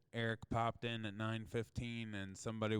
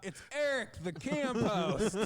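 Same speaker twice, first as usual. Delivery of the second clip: imitated yell; 8 semitones higher, 5 dB louder than usual. Camp host outside the camper, mock yelling. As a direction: call it out as the camp host, half laughing. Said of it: "this guy just yells out".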